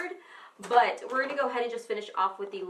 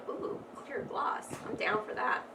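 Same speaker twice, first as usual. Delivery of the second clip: slow, breathy whisper of temptation; tempted whisper; 4 dB quieter than usual. Retold or imitated. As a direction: whisper it like you can't resist. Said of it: "I'm like".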